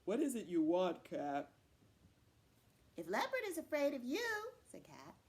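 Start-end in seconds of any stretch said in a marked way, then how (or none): 0.0-1.5 loud, stern voice of a big man; imposing man. Acted. Man staring down at Cat, loud and imposing. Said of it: "kind of stares down at Cat". 3.0-4.5 high, admiring cat voice; flattering cat. Acted. Cat buttering up Man, high and admiring.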